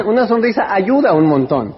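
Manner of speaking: grinning and chuckling as you say it; said with a laugh. Shown as a demonstration. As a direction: repeat it through a little laugh. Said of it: "Pónganse una sonrisa".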